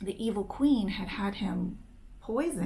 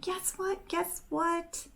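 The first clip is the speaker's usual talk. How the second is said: bursting with news, higher and quick; excited; 10 semitones higher, 4 dB quieter, slower than usual. Acted. Catherine runs up to Ingrid with news, excited. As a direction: blurt it out like a giddy girl. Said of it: "she's all excited about something".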